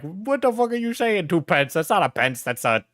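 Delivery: hammed-up British scolding; mock British. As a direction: imitate an outraged Brit, pitch jumping at the start. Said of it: "for the British in chat to be like".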